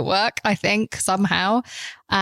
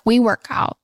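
mock American accent, higher; bad American accent; 4 semitones higher than usual. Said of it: "bad American accent just then".

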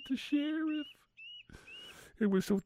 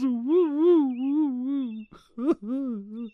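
excited cheer; 5 semitones higher, 5 dB louder, much slower than usual. Acted. Marvin cheering the near miss.

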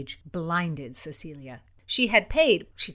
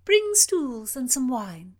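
high, slow royal order; imperious order; 6 semitones higher, 4 dB louder, slower than usual. Acted. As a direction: order the servants. Princess orders servants.

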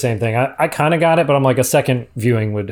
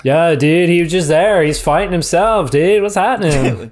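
mushroom guy voice; 3 semitones higher, slower than usual. Retold or imitated. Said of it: "That's the speaker's mushroom guy voice".

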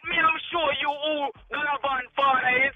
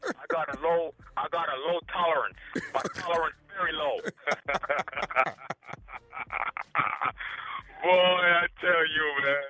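relieved laughing; 7 semitones lower than usual. Real, not acted. Caller relieved after the prank.

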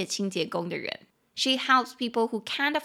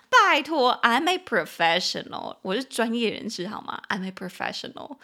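smug; 3 dB louder than usual. Pretend. Smug reply to praise.

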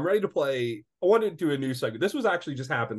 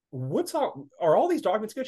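breezy greeting; 8 semitones higher than usual. Retold or imitated. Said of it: "I'm like".

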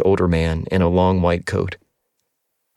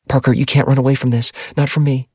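Addie's voice; 6 semitones higher than usual. A narrator's reading. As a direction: press him urgently, higher.

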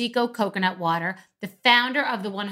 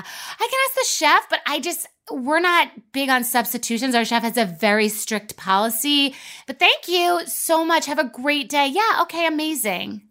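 passive aggressive server; 4 semitones higher than usual. Retold or imitated. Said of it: "passive-aggressive, like, overly nice, high-pitched voice".

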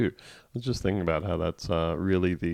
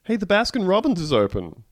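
cheerful mock tourist; 11 semitones higher, 5 dB louder than usual. Acted cheerful quote pointing gun.

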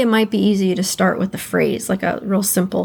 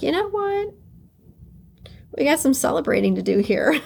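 bright higher burst, then laughing; excited; 5 semitones higher, faster than usual. Retold or imitated. Telling herself there's celebrating to do, excited. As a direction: announce it like a party starts. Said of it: "And I was like".

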